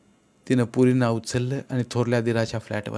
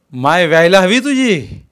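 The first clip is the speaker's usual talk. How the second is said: loud, higher, slow insult; slow spiteful curse; 6 semitones higher, 9 dB louder, slower than usual. Acted. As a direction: spit the curse out slowly. Mistress curses wife.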